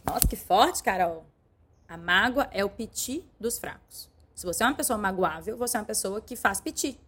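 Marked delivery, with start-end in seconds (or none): 1.9-4.1 slow repetition. Shown as a demonstration.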